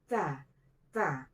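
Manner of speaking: "Ta, ta" with a little air after the t; gentle aspirated t in "Ta, ta"; slight breath release. Shown as a demonstration. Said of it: "Ada keluar angin sedikit".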